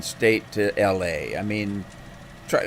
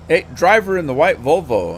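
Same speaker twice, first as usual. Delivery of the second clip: higher-pitched Southern trucker hail; Southern accent; 5 semitones higher than usual. Retold or imitated. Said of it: "the most outrageous Southern accent".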